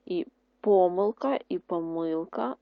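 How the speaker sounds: помилка said twice, first stressed on по-, then on -ми-; two stresses. Shown as a demonstration. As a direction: contrast both stresses in помилка. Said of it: "слово помилка можна наголошувати". (два варіанти наголосу)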